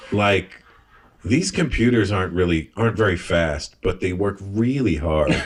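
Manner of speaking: slow, calm deadpan joke delivery. Shown as a demonstration. Friend doing the comic's old joke at his stage pace, slow and calm. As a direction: take it slow and easy, let each line sit. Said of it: "I'm gonna do it at your pace".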